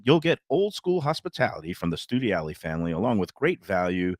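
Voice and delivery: conversational host-read sponsor spot; easygoing radio pitch. Acted. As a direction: sell the restaurant to listeners in tidy phrases. Reads a restaurant sponsor spot.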